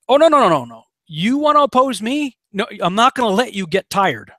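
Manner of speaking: teasing a rebellious Pharaoh, mock divine voice; voicing God. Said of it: "God's like going".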